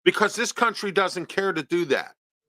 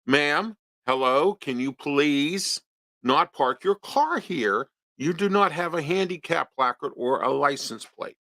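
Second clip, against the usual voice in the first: very nicely; 3 semitones lower than usual. Retold or imitated. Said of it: "I said very nicely".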